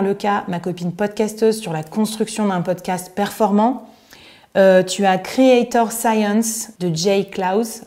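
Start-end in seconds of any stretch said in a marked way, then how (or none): 5.2-7.8 slow, proud American accent on the English name. Real, not acted. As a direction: drawl the name out in your best American accent. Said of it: "avec toujours mon magnifique accent américain". (accent américain appuyé, lent)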